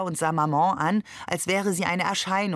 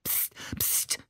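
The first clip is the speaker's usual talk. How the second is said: voiceless, hushed psst; hissed shushing; 10 dB quieter than usual. A narrator's reading. Ali hushes the laughing family because of the neighbours, hissing. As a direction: hiss for silence under your breath. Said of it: "zischte Ali".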